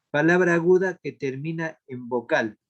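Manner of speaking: firm, measured dictation to a class. Real, not acted. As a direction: dictate it clearly, opening strongly. Dicta la respuesta a los alumnos. (dictado firme y pausado)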